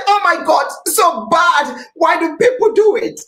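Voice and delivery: high, shouting mock of the crowd; high mock outrage; mocking the public. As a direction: imitate scolding people. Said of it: "People say".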